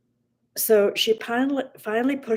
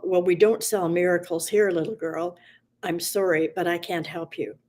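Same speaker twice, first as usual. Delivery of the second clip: gentler; 2 semitones lower than usual. Acted. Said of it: "a little less annoyed and a little less gruff".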